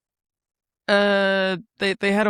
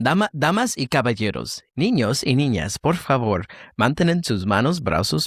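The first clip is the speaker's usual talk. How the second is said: smooth, sing-song Spanish safety announcement; Disneyland ride announcer; 3 semitones lower than usual. Shown as a demonstration. Host showing a voice to the guest, theme-park announcer. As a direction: announce it to the whole park like a recorded ride message. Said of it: "Oh, that Disneyland".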